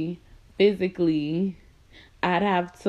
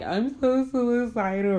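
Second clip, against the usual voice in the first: mock whiny rant; 4 semitones higher, slower than usual.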